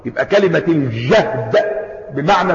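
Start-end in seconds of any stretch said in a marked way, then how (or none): 0.7-1.6 الجهد said "el-jahd", lower pitch; fatha on the jim. Shown as a demonstration. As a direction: show الجهد with an open "a" after j. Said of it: "وتيجي بالفتح هكذا". (الجهد بفتح الجيم)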